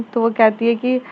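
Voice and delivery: plain reading voice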